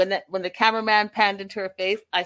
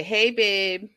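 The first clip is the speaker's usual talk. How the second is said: mildly sweet, sugary plea; a touch of syrupy sweetness; mock sweet; 3 dB quieter than usual. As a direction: imitate a fiancee laying on the sweetness. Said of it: "trying to be all sweet and lovely".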